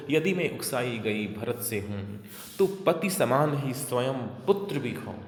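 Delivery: slow, measured oath in verse; verse recitation. Acted. Kaikeyi swearing by her own son, measured verse recitation. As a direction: recite it as a solemn vow.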